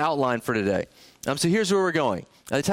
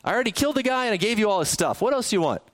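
higher, casual spousal impatience; mock exasperated husband; 4 semitones higher, faster than usual. King brushing off his queen's request, mock exasperated. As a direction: wave off your wife's request, lightly exasperated. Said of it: "It's as if to say".

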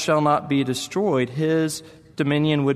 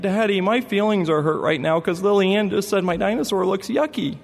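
put-on higher, whiny child calling to the front seat; a small boy tattling on his sister; hurt little boy; 5 semitones higher than usual. Son complains to dad.

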